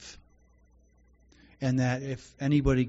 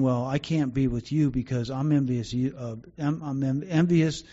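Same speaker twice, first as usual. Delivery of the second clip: imitating his envious inner voice; 4 dB louder than usual. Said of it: "basically saying".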